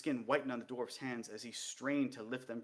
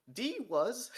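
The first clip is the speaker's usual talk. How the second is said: curt higher reply; 11 semitones higher, 5 dB louder than usual. Acted.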